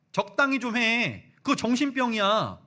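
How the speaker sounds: loud, high, fed-up snapping; angry Thomas. Retold or imitated. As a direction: cut them off, done listening. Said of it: "도마가 선을 딱 그었습니다". (짜증 내며 큰 소리로 끊는 도마)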